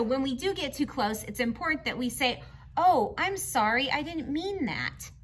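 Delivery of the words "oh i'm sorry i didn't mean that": gentle, polite apology. Shown as a demonstration. Teacher to class, showing how to apologise politely. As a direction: model a kind, polite sorry. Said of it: "use our polite voices".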